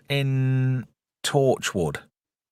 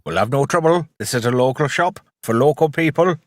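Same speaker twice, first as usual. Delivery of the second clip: League of Gentlemen shopkeeper. Retold or imitated. Mimicking the League of Gentlemen shopkeeper to show his terrible Welsh accent, lightly voiced. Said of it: "I turned into, uh, the guy from League of Gentlemen".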